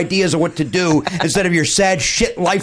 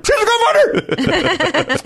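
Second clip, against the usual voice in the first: drawn-out, campy lilt; sassy Trump; much slower than usual. Retold or imitated. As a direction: imitate a camp Trump, slowly stretching every word. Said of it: "voice with a gay lilt over it".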